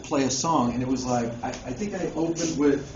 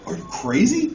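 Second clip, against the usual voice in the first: higher, sharply rising disbelief; incredulous promoter; 5 semitones higher than usual. Retold or imitated. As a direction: question it as if stunned. Promoter's incredulous reply acted out.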